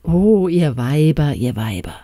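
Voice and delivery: exasperated call that falls away; exclaiming. A narrator's reading. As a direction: lament it aloud, sinking on the repeat. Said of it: "rief der Doktor".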